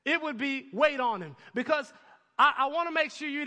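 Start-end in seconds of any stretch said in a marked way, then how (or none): 0.7-1.4 grandmother voice. Retold or imitated. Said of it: "like my grandmother".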